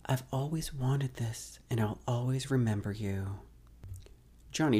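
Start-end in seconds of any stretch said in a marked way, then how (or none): 0.1-3.4 breathy voice. Acted. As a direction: breathe the words out gently. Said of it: "In a breathy voice".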